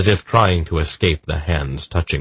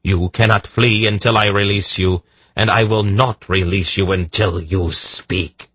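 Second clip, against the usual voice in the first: firm, raised-pitch ultimatum; commanding; 4 semitones higher, 3 dB louder than usual. Acted. Polgara gives the trapped mind an ultimatum, commanding. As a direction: lay down the order without yielding. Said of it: "Polgara commanded".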